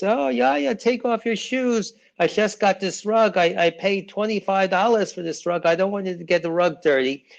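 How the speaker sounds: high-pitched fussy aunt fretting over her rug. Retold or imitated. Aunt scolding a guest about her new rug, high and fussy. Aunt telling you remove shoes.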